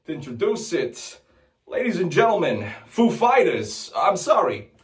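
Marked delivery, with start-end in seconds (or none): 1.7-4.7 Christopher Walken. Retold or imitated. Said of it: "Chris Walken".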